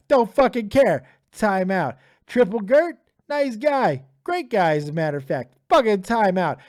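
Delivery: gleefully barking timeouts; loud timeout spree. Real, not acted. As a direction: dish out punishments with relish. Handing out timeouts to the chat.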